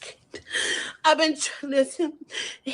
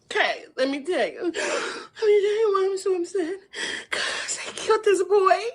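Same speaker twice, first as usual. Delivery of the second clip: fake crying; 3 semitones higher than usual. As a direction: act upset with fake tears. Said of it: "that fake crying is too much".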